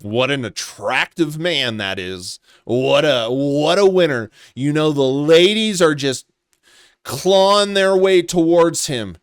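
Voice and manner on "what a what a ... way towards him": sarcastic. Real, not acted. Sarcastic praise of the photo.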